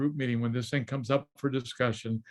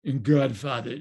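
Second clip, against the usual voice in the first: slow mock gangster delivery; lightly voiced mafioso, drawn out; mafioso's voice; slower than usual. Mafioso making his pitch to the producer, slow mock menace. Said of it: "he talks like this".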